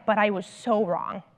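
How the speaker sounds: heartfelt admission. Retold or imitated. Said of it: "he's like".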